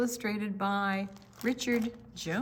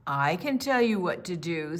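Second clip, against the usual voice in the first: caterpillar's voice; 6 dB louder than usual. Acted. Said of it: "says a woolly caterpillar".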